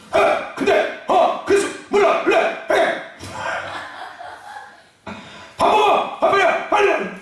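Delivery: high, rushed bossy nagging; quarrelsome nagging. Retold or imitated. Pastor imitating a cranky wife calling to eat, high nagging. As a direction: bark orders like a cranky mom. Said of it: "내 말투가 그냥 다 싸우는 말투".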